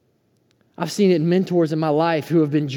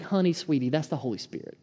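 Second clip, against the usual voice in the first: tender comfort, dropping softer toward the end; retold gentle reassurance; 8 dB quieter than usual. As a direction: softly soothe like a mentor. Wife comforting crying girl, retold.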